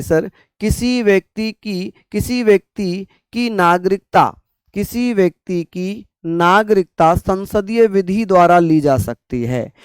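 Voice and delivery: slow student answer. Pretend. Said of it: "आप कहेंगे".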